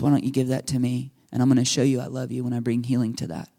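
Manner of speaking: tender. Acted. Jesus voiced comforting the hurting.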